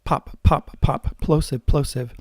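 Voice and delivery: "Pop" with a hard burst of air; "plosive" with an exploding p; popping plosives. Shown as a demonstration. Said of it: "Do you know what a PopGuard does?".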